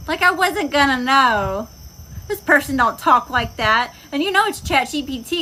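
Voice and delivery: incredulous scoff; indignant. Real, not acted. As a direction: lean in offended and disbelieving. Indignant about fake apology.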